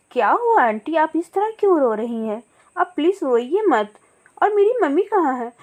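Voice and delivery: put-on a young chick asking after her mother; a hint of a scared child; worried little girl. Little bird Guriya speaks.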